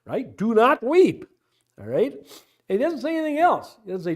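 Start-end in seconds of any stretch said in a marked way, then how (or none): 0.3-1.2 gruff. Acted. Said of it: "he's being kind of gruff".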